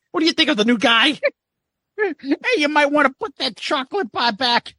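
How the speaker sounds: high, teasing heckler voice; mock Ace heckling. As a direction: roast the kids in the front row. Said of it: "And Ace says".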